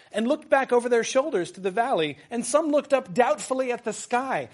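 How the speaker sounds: reads the Tolkien passage in a grand, lifted voice; a hint of an epic storyteller; reading aloud. Professor reading Tolkien to the class, grandly.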